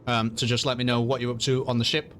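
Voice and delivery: talking through chocolate; chewing while talking; mouth full. Real, not acted. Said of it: "I have a chocolate bar in my mouth".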